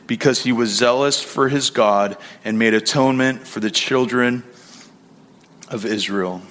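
measured, solemn reading of scripture. Acted. Pastor reads the Lord's words to the congregation, solemn. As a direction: read the passage like holy text from the pulpit.

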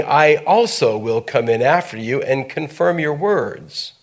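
steady, measured Bible reading aloud; scripture reading. Acted. Pastor reads Nathan's counsel to Bathsheba, measured. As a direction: read the verse to the congregation, unhurried.

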